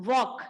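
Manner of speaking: "walk" without the L; silent l walk. Shown as a demonstration. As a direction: say "walk" with no L sound, like wok. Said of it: "हम इसे वॉल्क नहीं कहेंगे". ("walk" में एल silent)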